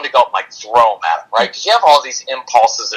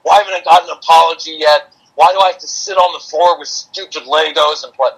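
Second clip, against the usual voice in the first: retold inner fuming; 3 semitones higher than usual. Dad fuming to himself on his son's floor, mildly exasperated. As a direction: grumble it like a put-upon parent. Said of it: "inside I was still kind of fuming".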